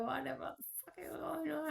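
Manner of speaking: hushed unvoiced whisper. To the viewer about the darkness, a lost whisper. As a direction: breathe it out with no voice.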